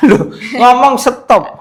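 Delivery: slow words broken by real laughter; laughing. Real, not acted. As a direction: laugh through it while correcting him. Laughing while coaching the patient. (sambil tertawa geli)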